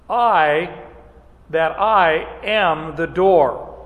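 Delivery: slow and emphatic, stress on "I" in "that I am the door". Acted. Preacher reading Jesus' claim to the crowd, slow and emphatic. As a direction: lean hard on "I", drawn out and deliberate. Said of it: "Very emphatic, very direct".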